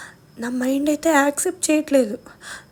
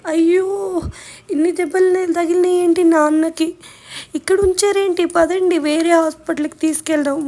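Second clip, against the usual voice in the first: panicked mother; 3 semitones higher, 5 dB louder than usual. Retold or imitated. Mother seeing father's injuries, louder panicked outcry. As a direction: voice her panic at the wounds.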